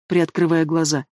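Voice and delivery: plain reading voice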